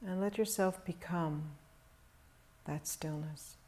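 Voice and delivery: calm, measured meditation voice with long pauses; guided meditation. Real, not acted. Teacher guiding meditators to settle into stillness, calm meditation delivery. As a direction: guide them gently into stillness, leaving long silences.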